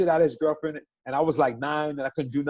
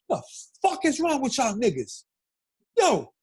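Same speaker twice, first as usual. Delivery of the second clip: retold yell; 6 semitones higher than usual. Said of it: "jumps in between us and goes".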